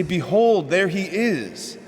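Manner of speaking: a grand best-man announcement; herald announcing. Retold or imitated. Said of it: "his job is to announce the bridegroom".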